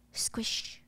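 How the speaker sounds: whispered squelch; whispered sound effect. Retold or imitated. George stepping onto the wet floor, whispered squish. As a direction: breathe out the squish in a soft whisper.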